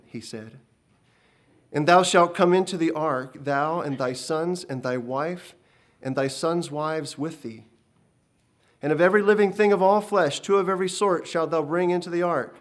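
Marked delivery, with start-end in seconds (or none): 1.7-12.6 loud, solemn divine command; a commanding heavenly voice; voice of God. Acted. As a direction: pronounce the covenant with weight. God's voice giving the covenant.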